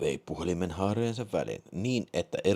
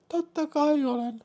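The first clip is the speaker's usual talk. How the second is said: very high falsetto answer; reply in a high woman's voice; woman caller. Acted. (naisääni korkeassa falsetissa)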